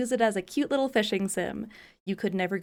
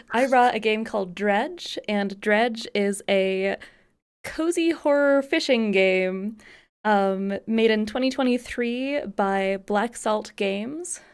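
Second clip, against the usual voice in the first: horror trailer voice; slower than usual. Pretend. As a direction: announce it like a movie trailer. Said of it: "do the trailer thing".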